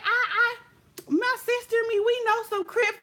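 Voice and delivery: high, stammering mock girl voice; hammed-up frightened rival; mock scared rival. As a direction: make her sound weak and flustered. Rival stammering a weak threat.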